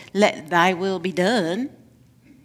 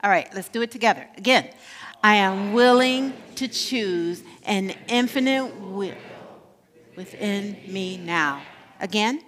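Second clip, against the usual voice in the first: affirmation leading; 2 semitones lower, 3 dB quieter than usual. Acted. Leads affirmation call and response.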